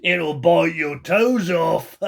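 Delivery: slow, lightly voiced gloating husband; gleeful old man. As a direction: savour the scare slowly. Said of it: "said Mister Twit".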